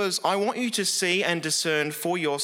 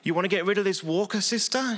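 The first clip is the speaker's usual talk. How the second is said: quick, higher coaxing question; mock faith healer; 5 semitones higher, faster than usual. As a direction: rush the question like a showman. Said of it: "he'd say".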